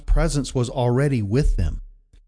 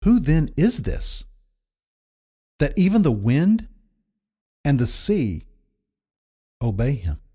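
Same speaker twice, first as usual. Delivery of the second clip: awed question; 3 semitones higher than usual. Retold or imitated. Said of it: "they said to one another".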